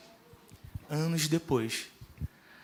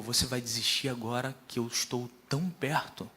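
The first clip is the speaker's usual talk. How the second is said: lightly voiced God, lowered pitch; a slightly lowered, challenging question; Deus; 4 semitones lower, 4 dB quieter than usual. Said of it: "Ele falou".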